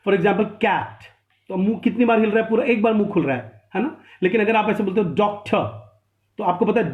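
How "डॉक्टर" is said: डॉक्टर broken into two separate syllables; syllable-by-syllable demo. Shown as a demonstration. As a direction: say डॉक्टर in two beats, डॉक then टर. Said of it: "मुंह दो बार हिलेगा". (डॉक्टर को दो हिस्सों में तोड़कर)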